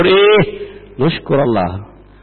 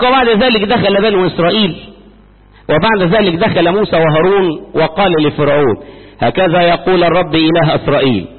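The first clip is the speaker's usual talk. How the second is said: steady, formal reading of scripture. Acted. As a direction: read it out like a Bible lesson. Reads scripture. (قراءة رسمية من الكتاب المقدس بصوت ثابت)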